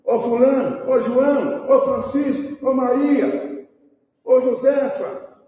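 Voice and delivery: high, loud hailing of one person after another; acted shouts for people by name; calling out names. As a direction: call each name across a crowd.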